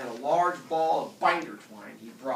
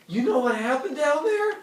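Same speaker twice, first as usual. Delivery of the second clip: high, loud shaky voice; 14 semitones higher, 7 dB louder than usual. Acted. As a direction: tremble through the question. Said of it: "he said in a shaky voice".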